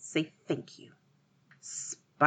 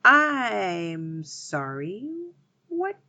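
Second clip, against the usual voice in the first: slow, much higher whimpering plea; pleading cry; 11 semitones higher, much slower than usual. A narrator's reading. Stuck spider begs the girl to help him, high and slow. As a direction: beg for mercy, drawn out. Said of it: "cried the spider".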